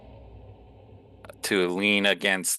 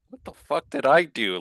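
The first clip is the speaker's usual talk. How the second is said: indignant; 8 semitones higher than usual. Acted. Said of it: "Vault kinda just does a".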